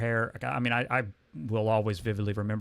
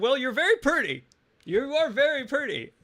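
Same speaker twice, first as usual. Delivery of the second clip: very high, giddy compliment; imitating giggly flattery; 13 semitones higher, 5 dB louder than usual. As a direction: reenact a bashful, giggling compliment, pitched way up. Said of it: "I just started giggling".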